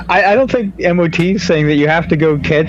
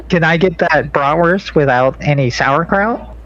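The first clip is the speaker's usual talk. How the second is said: lightly voiced Valley girl order; mock California teen, rising lilt; 2 semitones higher than usual. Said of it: "that Valley girl voice".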